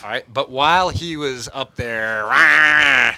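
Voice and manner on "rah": battle cry. Acted. Gnome charging into danger.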